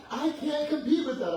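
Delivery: high, loud, laughing give-up; laughing concession. Retold or imitated. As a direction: admit defeat while laughing.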